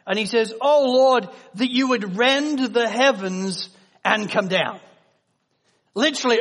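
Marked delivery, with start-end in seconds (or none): 0.6-4.8 raised plea to God, loud on Oh Lord; crying out to God. Retold or imitated. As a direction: call out to heaven like a prophet pleading. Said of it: "Isaiah is crying out to God".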